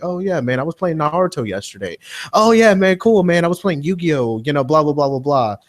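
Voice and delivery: anime geek. Acted. Guest mimicking PlayStation kids at school, eager anime geek voice. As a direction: play an excited little anime nerd. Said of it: "you got the little anime guys".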